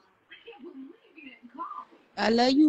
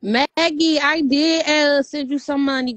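calling loudly across the room; 5 dB louder, slower than usual. Real, not acted. Sister calls out to Maggie on stream, loud. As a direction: raise your voice to reach her.

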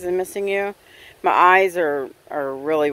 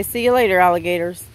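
sing-song goodbye; 4 dB louder, faster than usual. Acted. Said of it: "I'm gonna say".

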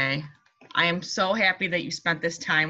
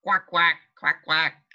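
duck quack; 3 semitones lower than usual. Shown as a demonstration. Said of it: "What kind of sound does a duck make?".

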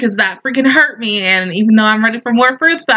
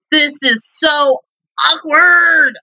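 cringing; 4 semitones higher, much slower than usual. Real, not acted. Cringing at anime scene.

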